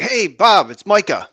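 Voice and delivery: match his energy with a big shouted hi; near shout greeting. Shown as a demonstration. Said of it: "I'll almost, like, shout at him".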